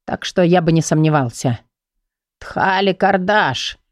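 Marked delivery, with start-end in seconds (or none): 2.4-3.8 slow, higher, annoyed outburst; displeased old man. A narrator's reading. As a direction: drag out the words with irritation. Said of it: "недовольно произнёс старик". (недовольный старик)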